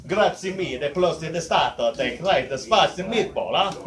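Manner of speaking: put-on a light Italian accent; Italian accent, sing-song like a chef. Showing his fifth Italian accent to the crowd. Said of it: "my fifth, uh, Italian accent".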